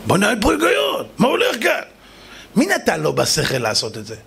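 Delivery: high, incredulous protest; baffled outcry. Acted. King baffled by scales that will not move, incredulous.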